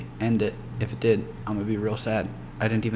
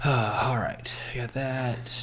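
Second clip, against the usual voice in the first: whispered, to himself; whispered pep talk; 2 semitones higher, slower than usual. Real, not acted. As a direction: whisper it to yourself for courage. Psyching himself up quietly.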